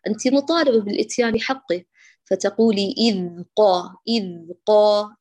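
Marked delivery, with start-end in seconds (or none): 2.2-5.2 إذ said slowly with the ذ running on; flowing ذ. Shown as a demonstration. Teacher slowly modelling a flowing ذ for the student. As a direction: let the ذ in إذ flow without stopping. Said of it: "اتركي الصوت يجري معك".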